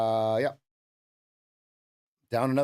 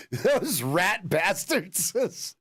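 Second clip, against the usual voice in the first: slow, higher mock grumble; drawn-out curse; 5 semitones higher, much slower than usual. Real, not acted. Trader cursing the traders who took his stop, slow mock grumble. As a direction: stretch the insult out in mock outrage.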